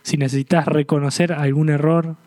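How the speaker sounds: an invitation to let go and repent; earnest closing appeal. Acted. Preacher urging the congregation to respond, in an earnest pleading voice.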